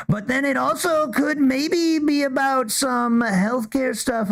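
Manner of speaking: lightly voiced Trump answering a reporter; a hint of Trump rambling about a press conference; Trump impression. Host playing Trump answering Scott's question, lightly voiced. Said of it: "here we go, Trump".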